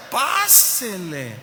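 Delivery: very drawn-out mock welcome; portero servicial. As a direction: stretch it slowly, waving the guest in. Portero apenado lo deja pasar. (bienvenida exagerada y alargada)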